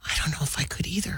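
whispered admission; whispering. Real, not acted. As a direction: whisper it sheepishly. Confessing doubt about the Heimlich.

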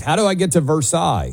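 lightly French Versailles, as ver-SIGH; a tourist asking in French style; mock French. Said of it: "if you're like".

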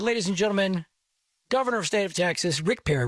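emcee introduction. Retold or imitated. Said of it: "I invite, I said".

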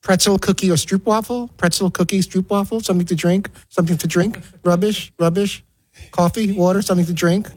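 lightly imitated cabin service patter; repetitive flight attendant. Flight attendant working down the narrow row, repetitive. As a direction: rote offers, each lifted like a question. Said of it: "have to repeat five thousand times".

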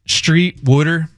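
"Wooder" for water, in Philly style; Baltimore-Philly accent. Shown as a demonstration. Host demos colleague's accent, Baltimore-Philly pronunciation. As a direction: demonstrate the Philly vowel in "Wooder". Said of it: "it's a great accent. I love it".

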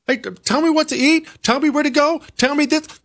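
high, pleading mock voice of someone who wants orders; lightly mocking a person begging for orders. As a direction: play a needy voice asking to be told. Mocking the institutionalized slaves.

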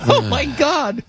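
high-pitched, through leftover laughter; laughing. Real, not acted. Co-host recovering from his laughing fit, high laughing exclamation. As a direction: gasp it out while still tickled.

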